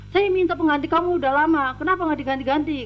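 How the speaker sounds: retold complaint. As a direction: snap the complaint out quickly. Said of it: "kata dia gitu".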